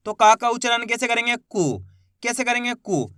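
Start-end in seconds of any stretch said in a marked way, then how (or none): 1.4-1.8 कु said short, vowel not stretched; short u sound. Shown as a demonstration. Teacher showing students a short कु. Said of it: "ज्यादा खींच के नहीं करना". 2.8-3.1 कु said short, vowel not stretched; short u sound. Shown as a demonstration. Teacher showing students a short कु. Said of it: "ज्यादा खींच के नहीं करना".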